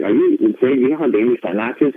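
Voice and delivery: retold "are you crazy" scolding; incredulous. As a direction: ask it as if talking to an idiot. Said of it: "look at me like I'm an idiot".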